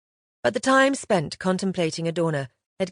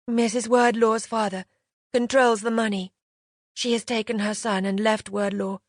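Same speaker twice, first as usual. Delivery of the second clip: put-on young governess, higher and earnest; eager young woman; 4 semitones higher than usual. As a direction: explain it eagerly, pitched up. Samantha explains, higher and eager.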